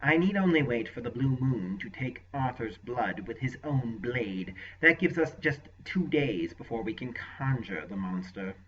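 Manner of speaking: a touch of self-satisfaction; smug. Acted. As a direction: sorcerer boasting to his lord, mildly smug. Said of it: "Rabadath answered smugly".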